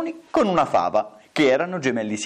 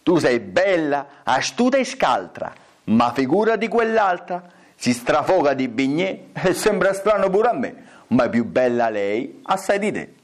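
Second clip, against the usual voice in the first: mirror. Acted. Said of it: "E lo specchio".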